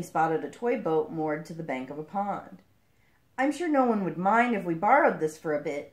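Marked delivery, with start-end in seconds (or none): 3.4-5.9 panting between words; out of breath. Acted. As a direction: speak while short of breath. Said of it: "he said, panting".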